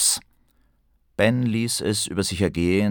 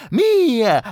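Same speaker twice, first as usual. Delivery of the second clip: high goblin, louder; possessive goblin; 7 dB louder than usual. Acted. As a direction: claim it like a greedy goblin. Goblin claims the phone.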